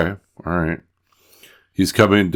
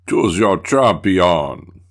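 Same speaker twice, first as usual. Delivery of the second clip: terrible game announcer; much slower than usual. Retold or imitated. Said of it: "Even the voices are terrible".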